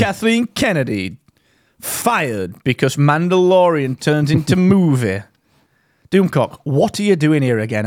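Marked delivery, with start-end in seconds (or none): 0.0-5.2 exaggerated cartoon intonation. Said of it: "why are you talking like that".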